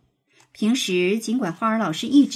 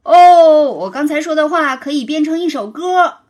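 laughing; 5 semitones higher, 10 dB louder than usual. A narrator's reading. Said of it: "他一边笑一边说".

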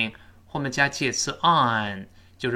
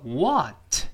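drawn-out, raised stress on "what". Shown as a demonstration. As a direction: lean on "what" and draw it out. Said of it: "这两个单词都重读".

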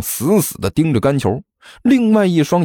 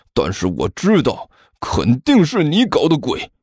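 lightly voiced angry boy. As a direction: dig in, convinced he's guilty. Fu Chen accusing, eyes red. (低沉固执地指责)

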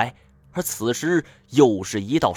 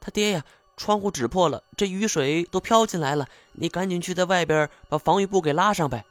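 high-pitched, fretful woman's voice; farm wife; 7 semitones higher than usual. A narrator's reading. Wife urging husband to fix the window, high and urgent. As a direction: press him in a high wife voice, quickening. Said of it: "而农妇却说".

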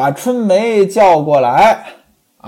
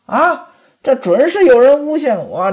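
这准是有人诬陷我 said high with a rising end; aggrieved protest; 7 semitones higher than usual. Acted. Pan Jinlian claims she was framed, high and rising.

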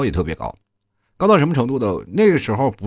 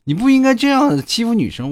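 higher-pitched mock scolding teacher; 8 semitones higher than usual. Teacher scolds the boy for bullying a girl, high mock scolding. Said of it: "边骂我边说".

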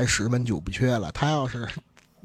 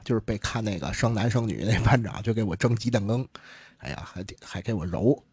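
ordinary talk

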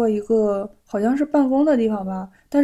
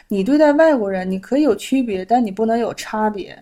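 firm retold rebuke. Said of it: "我那火腾一下就起来了".

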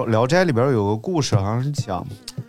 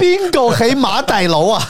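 higher, louder Cantonese call; 12 semitones higher, 5 dB louder than usual. Retold or imitated. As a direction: call out at the port for Ma. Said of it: "这个广东人一到口岸上".

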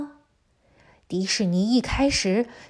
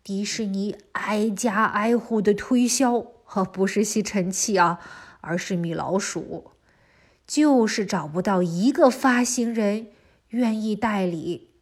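put-on lively storytelling for little kids; reading to a toddler. A narrator's reading. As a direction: tell it brightly to a small child. Children's story narration throughout.

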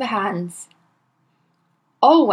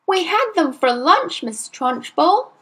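put-on small boy; 8 semitones higher than usual. A narrator's reading. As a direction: answer like an innocent little boy. Boy answers.

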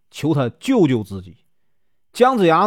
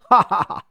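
woodcutter's mild scoffing "ha ha ha"; mocking laugh; 4 semitones higher than usual. A narrator's reading. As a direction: laugh off the old man's boast. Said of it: "武吉乐得前仰后合". (武吉嘲笑老人，轻笑哈哈哈)

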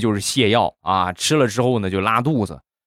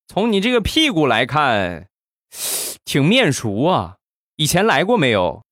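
put-on higher-pitched old doctor; 老大夫; 5 semitones higher than usual. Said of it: "这个老大夫就说". (老大夫拖着高音端详着说)

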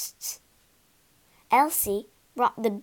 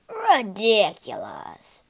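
slow, louder scoffing cry; scornful cry; 2 semitones lower, 5 dB louder, slower than usual. Acted. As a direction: dismiss the idea loudly and slowly. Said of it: "cried Slate".

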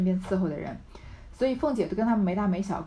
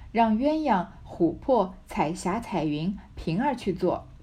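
字句分明地朗读古典小说; 像讲故事一样念原文; 小说朗读. A narrator's reading. Reads the novel aloud. (朗读古典小说的腔调)

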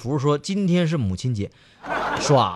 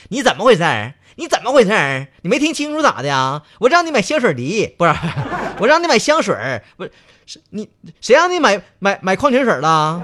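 high, loud mock tirade; scolding girlfriend; 7 semitones higher, 5 dB louder, faster than usual. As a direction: tear into him like an angry girlfriend. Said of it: "劈头盖脸就一顿骂呀".

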